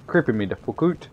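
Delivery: Canadian-style "out" said as "oot"; Canadian accent. Retold or imitated. Gamer mimicking how Canadians talk, Canadian accent. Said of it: "why do Canadians".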